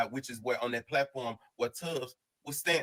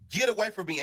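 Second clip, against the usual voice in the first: retold yell; 5 semitones higher than usual. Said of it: "he just went to screaming".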